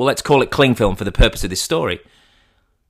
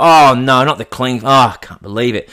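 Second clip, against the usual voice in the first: mock distraught; 2 semitones higher, 5 dB louder than usual. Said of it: "Mummy Fox is distraught".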